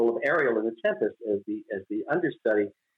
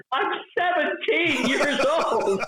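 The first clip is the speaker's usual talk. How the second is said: high-pitched exclamation; 13 semitones higher, much slower than usual. Retold or imitated. Mimics excited retold voice.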